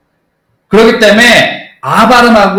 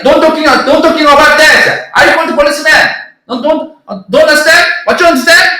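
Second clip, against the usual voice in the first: mock Indian English, pitched much higher; hammed-up Indian English argument, higher pitch; Indian English accent; 8 semitones higher, much slower than usual. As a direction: imitate an arguing Indian cabbie, high and slow. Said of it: "이렇게 얘기를 해요".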